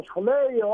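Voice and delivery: σχολέιο with a light ε before ι; σχολέιο as skho-le-i-o; ancient pronunciation. Shown as a demonstration. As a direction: sound both vowels of ει in σχολέιο. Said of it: "το προφέρανε σχολέιο".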